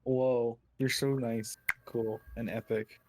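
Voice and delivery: understated, condescending compliment. Real, not acted. Player complimenting another at the table, condescending. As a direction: lay on praise that lands as condescending. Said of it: "That sounds condescending".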